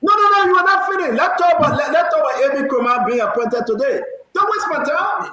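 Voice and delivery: sharp annoyed host refusing to yield; heated cut-off. Real, not acted. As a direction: shut the guest down, talking over him. Host cuts off guest heatedly.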